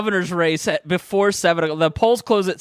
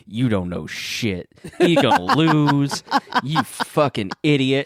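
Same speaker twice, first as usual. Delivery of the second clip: low, slow mock scolding; 4 semitones lower, slower than usual. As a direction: drag it out like an irritated scold. Miss Pat scolding on phone.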